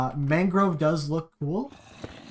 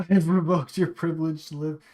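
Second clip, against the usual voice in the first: cracking up mid-line. Real, not acted. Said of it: "I'm laughing at my own quotes now".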